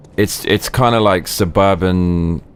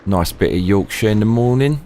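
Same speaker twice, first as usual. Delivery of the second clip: hammed-up Cockney rhyming-slang voice; Cockney geezer. Streamer warning governor about the stairs, hammed-up Cockney. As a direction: play the matey Cockney.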